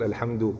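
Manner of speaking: "الحمد" cut off alone, as the wrong stop; stopping mid-phrase. Shown as a demonstration. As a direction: break off after "الحمد" as a bad example. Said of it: "وسط الكلمة تقول". (وقف خاطئ في وسط الكلام عند "الحمد")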